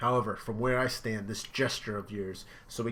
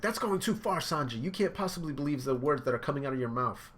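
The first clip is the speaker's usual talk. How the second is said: Nami voice; 4 semitones higher than usual. Retold or imitated. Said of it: "Nami's like".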